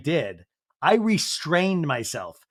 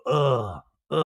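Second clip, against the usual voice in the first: short mock "ugh"; imitated groan. Imitating Janet heard downstairs, mock groan. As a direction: act out a groan overheard from downstairs. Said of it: "we hear her just go".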